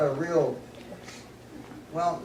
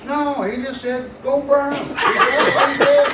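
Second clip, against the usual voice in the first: laughing through the words, louder and higher; can't hold back the laugh while quoting; 10 semitones higher, 9 dB louder, slower than usual. Real, not acted. Laughing while retelling the order.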